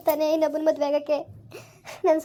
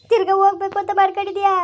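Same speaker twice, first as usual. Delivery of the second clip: upset raised voice; 3 semitones higher, 5 dB louder than usual. Acted. Grandmother confronts grandson about leaving.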